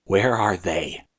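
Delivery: slow, a touch of fear; a scared boy forcing out a question; shaky. A narrator's reading. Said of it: "he asked shakily".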